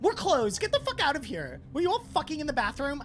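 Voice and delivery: high, exasperated telling-off; angry outburst. Acted. Game master plays Clarissa turning on players, angry outburst. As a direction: throw them out in a fed-up burst.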